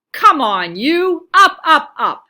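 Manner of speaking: loud, high bossy shouts; yelling at leaves. A narrator's reading. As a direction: rouse the sleepy leaves.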